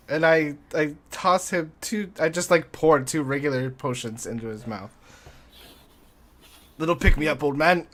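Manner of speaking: excited. Real, not acted. Excited potion-giving, higher and loud.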